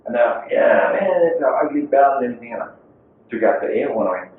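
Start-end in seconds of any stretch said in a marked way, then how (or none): 0.5-2.5 put-on rowdy kids' agreement. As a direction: lightly mimic a crowd of eager kids. Acting out kids jeering the bell.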